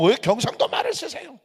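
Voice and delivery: imitated congregant. Another congregant's question, acted.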